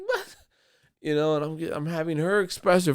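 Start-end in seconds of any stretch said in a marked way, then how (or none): 0.1-0.4 baffled what. Retold or imitated. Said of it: "I'm like".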